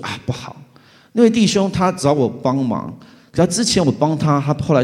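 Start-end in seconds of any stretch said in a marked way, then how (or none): 0.0-0.6 under-breath dread. Retold or imitated. Muttering dread on seeing brother.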